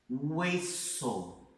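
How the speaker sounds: Hueso said with no h sound, just eso; silent h. Shown as a demonstration. Teacher showing students the Spanish h is silent. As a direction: start Hueso right on the vowel, h silent. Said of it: "Hueso é como se não existisse".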